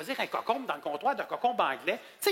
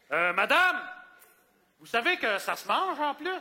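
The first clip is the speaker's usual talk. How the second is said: mock loud remark; 2 semitones higher, slower than usual. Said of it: "je parlais assez fort pour que tout le monde m'entende".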